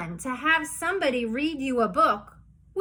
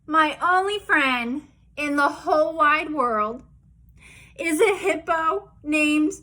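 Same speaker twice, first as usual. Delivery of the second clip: silly proclamation; 3 semitones higher, 4 dB louder than usual. Acted. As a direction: stretch the silly name out. Forced silly book line.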